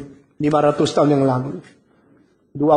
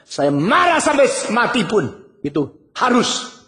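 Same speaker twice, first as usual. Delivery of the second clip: defiant retort; 6 semitones higher than usual. Acted. Jonah defies God.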